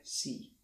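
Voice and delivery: "si" whispered with a plain s; southern Spanish s; seseo demo. Shown as a demonstration. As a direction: breathe out the plain s sound. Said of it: "si wymawiane jest jak se".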